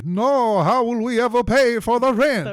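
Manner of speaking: very high, melodramatic gasp of despair; hammed-up dismay. Dracula's spouse hearing about the firing, hammed-up high despair. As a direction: wail it like a soap-opera spouse.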